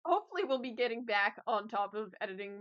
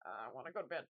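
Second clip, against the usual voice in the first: sleepy whine; 8 semitones lower, 7 dB quieter, much faster than usual. Retold or imitated. Sleepy whining quote of herself.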